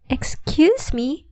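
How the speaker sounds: put-on high, slow, sweet old lady; bright old woman. A narrator's reading. Old woman at the door offers help, bright and sweet. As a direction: greet them kindly like a grandmother. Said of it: "she said brightly".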